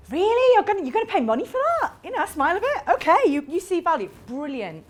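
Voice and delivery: high, incredulous mock reply. Retelling a note in her bag, mock disbelief. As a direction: scoff at paying for a smile.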